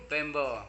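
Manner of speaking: "bembo" with E for the first vowel; English-sounding bamboo. Shown as a demonstration. Teacher shows pupils a similar word pair, English-style "bembo". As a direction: turn bambu into English-like "bembo".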